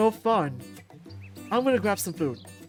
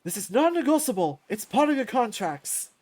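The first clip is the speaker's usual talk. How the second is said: raised, higher announcing voice; mock-stern callout; 3 semitones higher, 5 dB louder than usual. Champ telling fighters about contracts, mock-stern callout. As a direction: call out the rule to a crowd.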